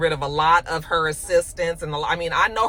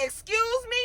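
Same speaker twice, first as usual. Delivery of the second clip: much higher, offended Excuse me; indignant; 5 dB quieter than usual. Retold or imitated. Jax stunned by her colleague, high indignant. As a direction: act as if you misheard an insult. Jax answers Kathy's insult.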